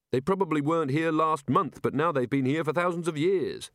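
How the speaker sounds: a touch of beery puzzling-out; lightly voiced tipsy Rincewind.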